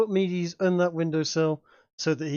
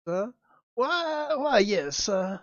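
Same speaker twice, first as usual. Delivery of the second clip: put-on hammy Southern colonel accent; bad Southern accent; 2 semitones higher than usual. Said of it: "a bad Southern accent".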